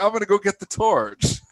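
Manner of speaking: high mock British accent on "torch"; a kid playing British, asking for the torch; light British child accent, amused; imitating British child. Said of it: "they call flashlights torches".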